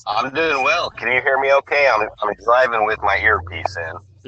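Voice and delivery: muffled earpiece call from the car; underwater. Real, not acted. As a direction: voice through a bad phone line. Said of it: "You sound a little bit underwater".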